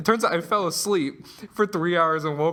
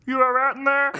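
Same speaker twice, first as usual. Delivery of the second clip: raised, higher call into a stall; mock calling out; 8 semitones higher, 4 dB louder than usual. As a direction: imitate a stranger calling to check on someone. Stranger calls over stall wall.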